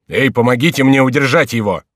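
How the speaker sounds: loud urgent call; shouting for help. A narrator's reading. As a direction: call for help across the room. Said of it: "закричал Генрих". (громкий крик о помощи)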